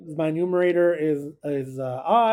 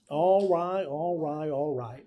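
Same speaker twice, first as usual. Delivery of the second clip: Matthew McConaughey impression; 4 dB quieter, slower than usual. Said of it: "Matthew McConaughey".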